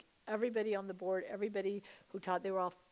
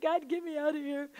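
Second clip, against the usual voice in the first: high, loud desperate plea; near tears; 7 semitones higher, 7 dB louder than usual. Retold or imitated. Retelling her prayer to escape the bathroom, almost crying. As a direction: plead loudly as if about to cry. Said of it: "I'm almost crying".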